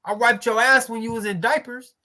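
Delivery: scolding mama. Pretend. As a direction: play the hurt mother calling out her son. Mother scolding ungrateful son.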